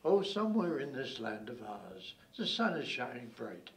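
measured, wistful close to a mock-epic; lyrical poem recital. Recites the poem's lyrical ending.

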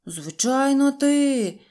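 high, loud chorus-like retort; accusing shout. A narrator's reading. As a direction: shout back at the culprit. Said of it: "закричали всі".

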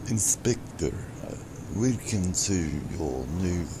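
put-on abandoned try at a heavy Eastern European accent; failed foreign accent attempt. Streamer first reading the game intro in a put-on foreign accent. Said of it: "I'm not gonna even try to do that accent".

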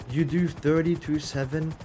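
rising, disbelieving echo of you do thirty-two seven; you do thirty-two seven asked with a sharp upward tune; incredulous question. Real, not acted. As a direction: throw the words back in disbelief. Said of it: "What's that supposed to mean".

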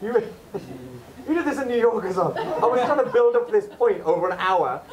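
laughing, teasing a friend. Real, not acted. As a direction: tease him through laughter.

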